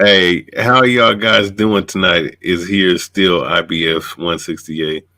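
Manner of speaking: slow, drawn-out announcer greeting; slow mock-grand hype-man intro; mock champ greeting. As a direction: parody a self-important boxer, slowly. Mocking a commenter's greeting.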